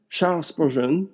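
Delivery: Charles Spurgeon said with an English accent. Shown as a demonstration. Preacher quoting a theologian to the congregation, in an English accent. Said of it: "désolé pour mon accent anglais".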